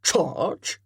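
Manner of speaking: puzzled echo of the word Charge; questioning echo. Acted. Colonel querying Chatton's battle cry, puzzled echo. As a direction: repeat it back, doubtful. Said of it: "echoed the colonel".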